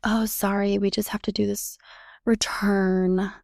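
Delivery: grudging sorry, last words whispered; mock half-hearted apology trailing into a whisper; reluctant sighing apology. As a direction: imitate a clerk's put-upon sigh. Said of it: "they just had this tone and this sigh".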